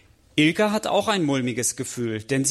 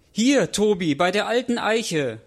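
higher call back across the distance; 6 semitones higher than usual. Acted. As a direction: call back so Tobi can find them. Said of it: "rufen sie zurück". (hoch zurückrufend)

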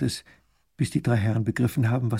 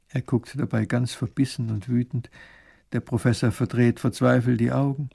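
ordinary delivery, nothing marked

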